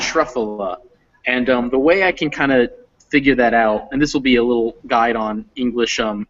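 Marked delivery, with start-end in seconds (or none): 0.0-0.8 "Truffula" as TRUFF-uh-luh, falling after the first syllable; model pronunciation. Shown as a demonstration. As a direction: repeat "Truffula" clearly, stress on TRUFF. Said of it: "is how we do that".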